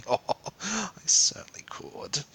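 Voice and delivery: stern. A narrator's reading. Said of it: "she said sternly".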